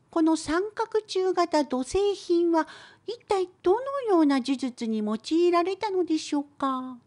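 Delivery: usual speaking voice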